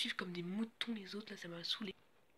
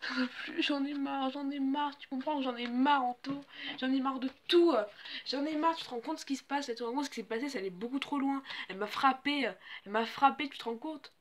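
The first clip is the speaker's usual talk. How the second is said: upset complaint; 4 semitones higher, 3 dB louder than usual. Acted. Distressed confiding after the fight.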